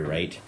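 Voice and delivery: "right?" lifted at the end like a question; questioning tune. Real, not acted. Podcaster checking with listeners, questioning lift on "right?". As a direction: let "right?" rise, asking. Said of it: "I said that like it was a question".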